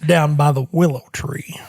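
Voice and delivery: lightly put-on southern accent; mild mock southern accent. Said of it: "That's my southern accent".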